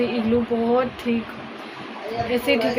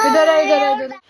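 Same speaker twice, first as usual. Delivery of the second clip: calling over; 4 semitones higher, 6 dB louder than usual. Real, not acted. Calling crying child over.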